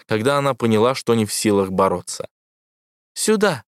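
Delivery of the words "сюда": высокий резкий зов; властно позови; зовущий крик. A narrator's reading. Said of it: "звал аватар". (властный зов)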